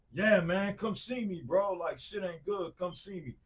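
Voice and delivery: high-pitched imitation of a distressed caller; high urgent plea. Friend begging him to come over, high and urgent.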